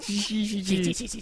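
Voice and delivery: hissing bug monster imitation; monster noise. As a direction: hiss like a silly bug monster. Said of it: "what was it? Like".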